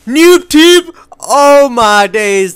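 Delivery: high, loud cry then slow drawn-out groan; exasperated shout. Real, not acted. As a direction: yell at the cheap kill, then sag. Killed by grenade launcher.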